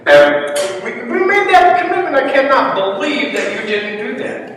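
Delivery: hammed-up rabbi scolding his friends; indignant rabbi. Rabbi voiced in joke.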